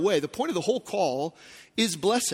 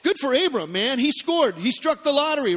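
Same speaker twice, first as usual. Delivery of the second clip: mock cheer; 4 semitones higher, 4 dB louder than usual. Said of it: "you'd be like".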